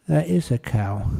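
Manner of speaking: That is a cow said gently, yielding; gentle concession. Acted. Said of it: "he squeezed her hand gently".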